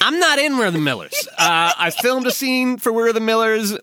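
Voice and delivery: amused protest. Real, not acted. Laughing protest at the mistake.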